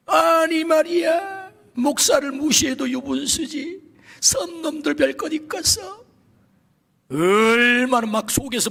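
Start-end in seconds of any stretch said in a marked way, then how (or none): 0.1-6.0 high, slow, indignant cry; indignant outburst. Retold or imitated. Pastor relives his anger at the insult, raised and indignant. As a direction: let the outrage burst out, higher.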